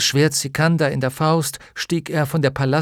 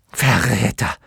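yelled accusation; shouting; 4 dB louder than usual. Acted. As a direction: hurl the word at him. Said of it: "schrie Bastian zurück".

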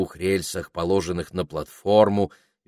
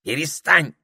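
останавливая; 8 semitones higher, 5 dB louder than usual. A narrator's reading. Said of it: "остановил её попугай".

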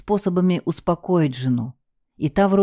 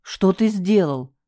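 gasp; 2 semitones higher, slower than usual. Acted. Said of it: "ахнул Карл".

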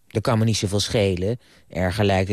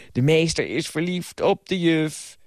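higher, slow, drawn-out announcement; called-out taunt; 6 semitones higher than usual. A narrator's reading. Boy pointing at the lovestruck teacher, high drawn-out calling. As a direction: call it out teasingly, stretching each word. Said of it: "wees met zijn vinger naar me en riep".

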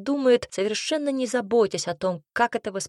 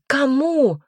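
a high, much louder Кому; sharp pitying question; 5 semitones higher, 10 dB louder than usual. A narrator's reading. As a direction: snap back the single word. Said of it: "с жалостью посмотрела на неё подруга".

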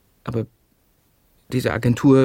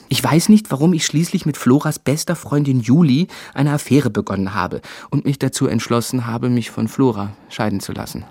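inner monologue. Acted.

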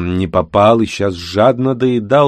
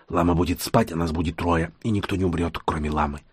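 quietly persuasive, steady and sure; 6 dB quieter than usual. Acted. Youngest at the council persuading his friends, quiet and sure. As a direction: talk them into it, calm and convincing. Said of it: "старался говорить предельно убедительно".

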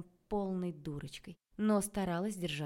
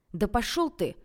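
louder, higher annoyed brush-off; irritated outburst; 5 semitones higher, 7 dB louder than usual. A narrator's reading. Man wearied by the situation, snapping irritably at his rival. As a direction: fling the insult out in irritation. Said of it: "раздражённо бросил Анатолий".

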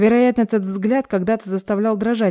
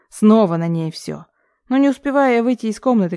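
ordinary delivery, nothing marked

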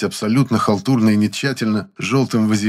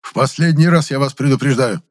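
louder, higher angry warning; growling warning; 6 semitones higher, 4 dB louder than usual. A narrator's reading. The boss warns Kapustin, angry. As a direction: threaten in a rage. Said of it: "прорычал он".

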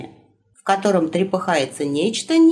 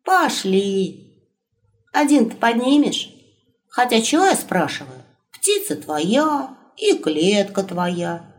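raised, wry wolf companion; 3 semitones higher than usual. Acted. Wolf voiced, teasing.

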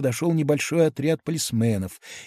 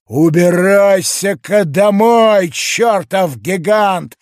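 louder, slow and higher, yelling; angry shout; 5 semitones higher, 6 dB louder, slower than usual. A narrator's reading. Hawker shouting at the giant to go home, louder. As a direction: bark it at the giant. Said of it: "крикнул витошник".

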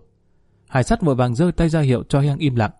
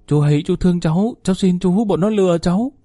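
pleading; 5 semitones higher than usual. A narrator's reading. Kneeling nephew begs the colonel to forgive him, pleading high. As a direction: beg for mercy, voice climbing high.

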